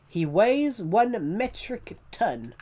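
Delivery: high, slow put-on movie voice; hammed-up Austin Powers villain intro; movie narrator voice. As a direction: drawl it like the movie's announcer. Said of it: "He, fat bastard".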